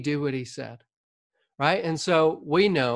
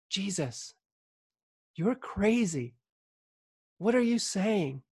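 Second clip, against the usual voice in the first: imitating Peter's private rebuke; 4 semitones higher, 5 dB quieter than usual. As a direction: take him aside and scold him softly, out of the crowd's hearing. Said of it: "doesn't wanna embarrass Jesus in front of the crowd".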